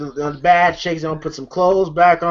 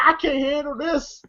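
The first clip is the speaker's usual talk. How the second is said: mock tearful whimper, higher pitched; Roach; 6 semitones higher, 4 dB quieter than usual. Roach crying he can't handle it, mock tearful. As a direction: lightly imitate someone crying. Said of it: "The Roach is crying".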